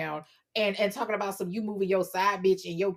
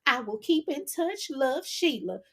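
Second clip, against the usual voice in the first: higher, cheerful country twang; country girl voice; 5 semitones higher than usual. Pretend. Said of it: "you got the country girl voice ready?".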